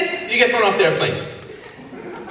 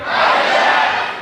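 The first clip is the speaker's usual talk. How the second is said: HI JACK called out louder. Shown as a demonstration. Audience told to say Hi, Jack louder. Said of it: "Say it louder".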